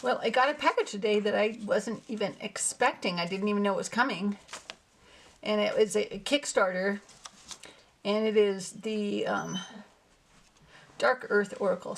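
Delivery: a bit winded after running around; out of breath. Real, not acted. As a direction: talk while still catching breath. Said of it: "kinda out of breath".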